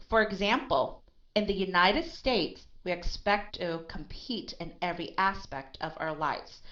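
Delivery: teacher's model sentence with expect and aspect unemphasized. Shown as a demonstration. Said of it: "the tone of voice is lower".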